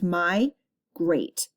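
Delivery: my, pause, great, as two beats; split into syllables. Shown as a demonstration. Teacher showing two syllables in migrate, pausing between my and great. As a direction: break migrate apart into my and great. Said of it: "it actually has two syllables".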